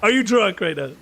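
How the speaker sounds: high-pitched, disbelieving outburst; astonished they could doubt it; incredulous scoff. Real, not acted. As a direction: challenge them in real disbelief, pitch climbing. Scoffs at someone's doubt about Scottishness.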